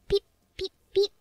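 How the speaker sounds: mock robot beeps; robot beeping. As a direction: beep like a broken machine. AI pretends to malfunction.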